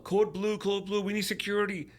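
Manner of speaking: high, urgent mock announcement of the code; hospital code call. Retelling the hospital code he overheard, imitating an urgent announcement. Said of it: "I heard the code".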